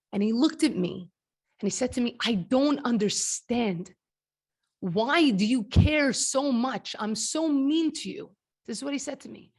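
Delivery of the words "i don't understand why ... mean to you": slow, hysterical sobbing through the words, acted. Retelling what he said to you in the stairwell, imitating hysterical crying. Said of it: "he started hysterical crying".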